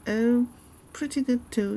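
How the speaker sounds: loud, high, cheerful oh; real upbeat answer; excited reply. Real, not acted. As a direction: burst out happily. Answering chat happily.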